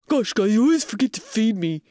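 Norman, cynical cat. Shown as a demonstration. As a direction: complain like a jaded, underfed cat. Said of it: "Norman, our cat's voice".

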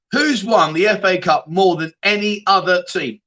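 asked again slowly, each word spelled out; slow deliberate quiz re-ask. Shown as a demonstration. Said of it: "Let me just ask you that one again".

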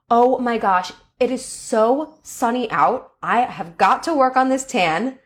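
genuinely delighted vacation gush; mean every word, light and thrilled; feeling it. Shown as a demonstration. Teacher shows the same words said with real feeling. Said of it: "I'm feeling it".

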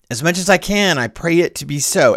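a lecturer hamming up the pilgrim's flowery reply; floral, elevated reading. Shown as a demonstration. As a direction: lift up high on the first words and sweep down grandly. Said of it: "this language gets very floral".

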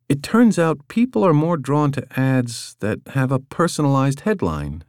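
a hint of a young woman explaining; Katya voiced. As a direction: read her as an eager young colleague, lightly. Katya's voice in audiobook.

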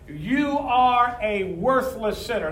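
hammed-up condemning preacher; mock preacher. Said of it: "You heard a preacher say sometime".

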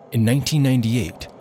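measured radio documentary narration; documentary introduction. Acted. Narrate it as a documentary opener. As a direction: producer introducing stories of women inside prison, formal narration.

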